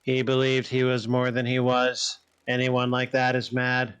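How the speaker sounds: even-pitched, measured condemnation; translated character's judgement. Acted. Creature explains why the king was mad, measured and even. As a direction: deliver the verdict levelly and deliberately.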